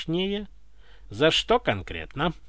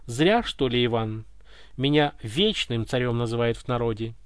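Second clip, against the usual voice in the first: proud; 5 semitones lower than usual. Acted. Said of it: "Гордо спросил царь".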